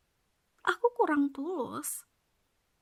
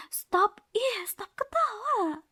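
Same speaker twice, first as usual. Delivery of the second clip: higher, louder whiny stop; sharp playful stop; 7 semitones higher, 3 dB louder, slower than usual. Acted. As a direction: cut him off playfully. Telling him to stop laughing. (stop yang lebih keras dan tinggi)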